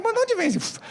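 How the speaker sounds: high incredulous question to the cabbie; amazed question. Retold or imitated. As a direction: ask in wide-eyed disbelief. Amazed question about whistle.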